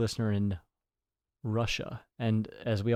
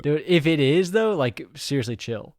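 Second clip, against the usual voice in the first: louder, slower half-joking appeal; joking plea; 4 semitones higher, 5 dB louder than usual. Pretend. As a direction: tell him to chill, drawn out. Joking plea to Vladimir himself.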